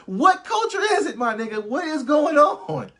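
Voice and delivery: high, loud, laughing outburst; laughing disbelief. Real, not acted. Cracking up at the accent, real laughing disbelief.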